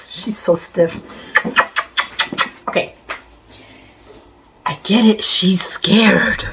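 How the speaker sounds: hushed whispered remark. Real, not acted. Owner whispering that her stiff cat is scared. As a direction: breathe it so the cat stays calm. Aside about the frightened cat.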